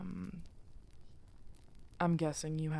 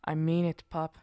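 louder, firm warning to the pup; stern warning; 8 dB louder than usual. Acted. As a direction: shut the pup down, firm and loud. Hermit hushes the new wolf.

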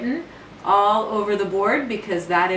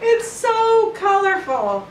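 laughing; 12 semitones higher, 4 dB louder, slower than usual. Real, not acted. Laughing at partner's painting.

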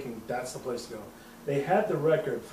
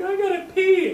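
much higher, louder urgent whine; mock girly voice; 8 dB louder than usual. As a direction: imitate her urgent need. Girlfriend needing restroom.

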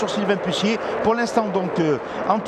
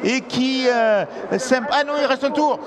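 excited commentator; 5 semitones higher than usual. Real, not acted. Live finale, last lap.

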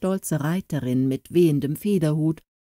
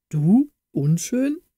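incredulous cry; 3 semitones higher, slower than usual. A narrator's reading. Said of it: "rief der Herzog".

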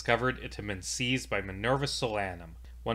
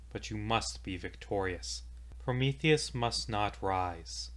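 soft grave plea; 6 dB quieter than usual. Acted. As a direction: plead quietly, all hope fading. Dying voice's plea to heroes.

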